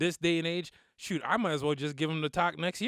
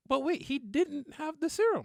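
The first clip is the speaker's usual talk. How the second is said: higher, slower dawning "wait" realization; retold realization; 11 semitones higher, slower than usual. Telling his friend the plot hole he noticed, slow high realization. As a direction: let the catch dawn on you.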